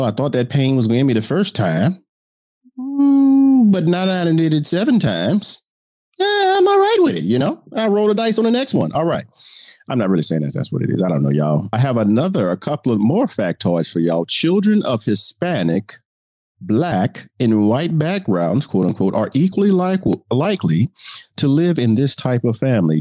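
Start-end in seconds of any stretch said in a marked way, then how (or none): 0.0-9.2 imitating a serial divorcee. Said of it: "you're like". 14.2-23.0 reporter voice. Shown as a demonstration. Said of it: "the reporter voice allows me".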